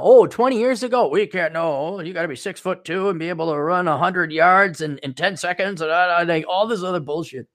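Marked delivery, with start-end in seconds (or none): 0.0-5.8 a hint of a higher pompous cop voice; lightly lampoon the old police standards; mock police department. Police departments bragging about old requirements, lightly mocking. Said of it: "police departments now".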